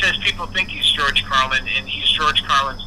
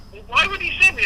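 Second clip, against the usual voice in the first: mildly indignant retold question, pitched high; kind of mad; 13 semitones higher than usual. Diner regular asks why he was sent, kind of mad. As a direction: ask it high, a bit miffed. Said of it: "actually kind of mad".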